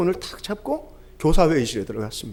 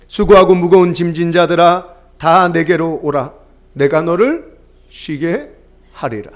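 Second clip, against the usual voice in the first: gentle voice of the Lord. Acted. Pastor voices the Lord's call to the weary, slow and gentle. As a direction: offer rest slowly, like an open hand. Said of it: "이게 주님의 선언이죠".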